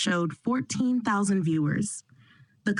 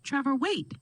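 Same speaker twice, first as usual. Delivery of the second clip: screaming; 6 semitones higher, 3 dB quieter than usual. A narrator's reading. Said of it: "Leslie screamed".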